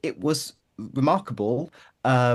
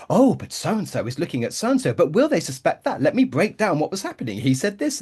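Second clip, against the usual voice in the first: mock dramatic narrator; 4 semitones higher than usual. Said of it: "he kind of comes and narrates everything".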